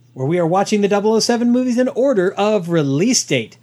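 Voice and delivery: segment announcer. Acted. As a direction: open the segment like a show host.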